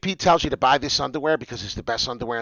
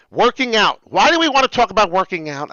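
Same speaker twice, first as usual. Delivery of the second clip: higher, louder hype shout; screaming to followers; 7 semitones higher, 6 dB louder than usual. Real, not acted. Host hyping followers about working out, real shout. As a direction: yell it at the viewers to pump them up. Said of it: "I gotta stop screaming to my followers".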